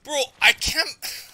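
can't-believe-it gamer wail; exasperated cry. Real, not acted. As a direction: drag it out in loud frustration. Gamer exasperated after dying.

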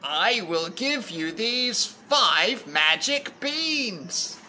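slow, deliberate character offer; lightly voiced man, every word drawn out; man in story. Man offers Jack magic beans, slowly and deliberately.

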